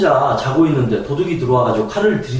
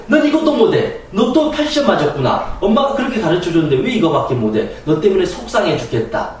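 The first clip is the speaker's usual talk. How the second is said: mother berating a child over a bad test; angry scolding mother; 4 semitones higher than usual. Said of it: "막 때리면서 잔소리하고 화를 내고".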